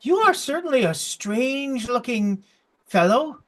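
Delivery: high, puzzled gnome voice; curious gnome. Acted. Gnome looks over odd visitor, high curious voice. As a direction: size up a stranger, pitched high. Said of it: "looks at you and he says".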